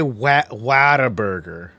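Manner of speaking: mocking, slow Whataburger with a flat "wat" as in hat; mocked pronunciation. Mocking someone's way of saying the burger name, drawn-out WHATAburger. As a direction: imitate how people say Whataburger, drawn out. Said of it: "Why do people say it all fucking dumb".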